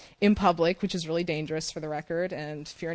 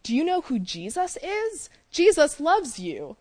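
high, slow, simple words for learners; mock-basic teacher English; 9 semitones higher than usual. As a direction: speak like to a beginner, slowly. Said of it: "I shared it in third grade English".

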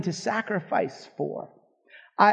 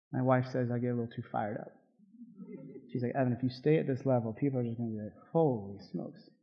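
softer, quicker aside after the preaching; pulling back the volume, a little sheepish; dialing it down; 8 semitones lower, 11 dB quieter, faster than usual. Real, not acted. Pastor tones himself down after his wife's warning, softer and quicker. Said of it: "maybe I'm being a little".

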